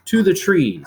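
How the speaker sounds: To the trees with the last word hit hardest; stress on trees. Shown as a demonstration. Teacher reading an anapest example, stressing trees. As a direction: lean into trees at the end. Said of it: "The last part is stressed".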